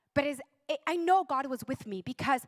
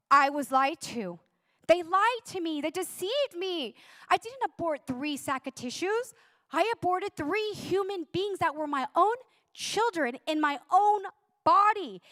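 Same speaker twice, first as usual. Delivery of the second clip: anguished outcry; 5 semitones higher, 4 dB louder than usual. Retold or imitated. Recalls crying out in realisation.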